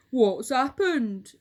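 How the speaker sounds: a hint of a panicked scream; mild mock scream. A narrator's reading. Mister Twit seeing the room, slow loud alarm. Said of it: "screamed Mister Twit".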